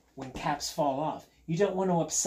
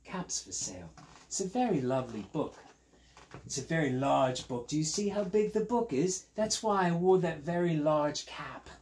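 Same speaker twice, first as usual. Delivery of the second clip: lightly put-on London accent; British storyteller chatting to children; British accent like Steve; 2 semitones higher than usual. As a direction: present the big book in a British accent. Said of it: "doing an impersonation of Steve".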